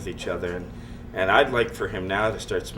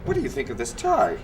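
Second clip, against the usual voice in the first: imitating the boss. The speaker imitating the owner announcing himself, high and mock-pompous. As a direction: squeak it out like a self-important owner. Boss voiced in his story.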